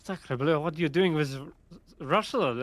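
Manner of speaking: put-on lightly French-accented chef. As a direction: exclaim like an alarmed French cook.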